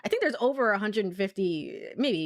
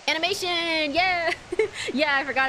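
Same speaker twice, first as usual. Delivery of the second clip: high excited cry; thrilled yelp, high and bright; 9 semitones higher, 4 dB louder than usual. Real, not acted. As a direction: burst out with delight. Excited discovery in game.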